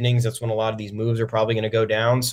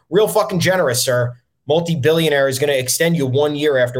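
sarcastic; 3 semitones higher, 4 dB louder than usual. Acted. Sarcastic jab at Astros owner.

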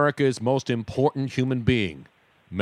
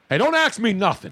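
tough guy; 5 semitones higher than usual. Acted.

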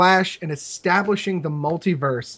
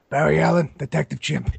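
gruff ape detective introducing himself; gruff chimp voice. Pretend. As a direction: growl it out like a tough chimp. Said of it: "this gruff Chimp voice".

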